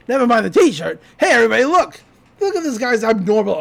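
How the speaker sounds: hammed-up Stan yelling at a customer; calling out to the shop. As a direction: announce it loudly to everybody.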